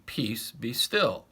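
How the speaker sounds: slow, calm command. Acted. Jesus speaking to the sea, slow calm command. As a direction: still the sea gently but firmly.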